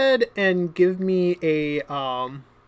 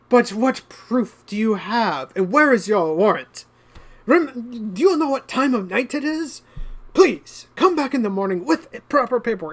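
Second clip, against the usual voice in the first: indignant nobleman; 5 semitones higher than usual. Acted. Noble protests innocently.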